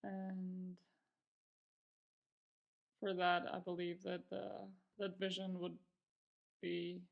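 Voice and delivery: calm, unhurried meditation guidance with long pauses; guided meditation. Real, not acted. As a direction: ease them into practice, pausing between phrases. Begins guiding the meditation.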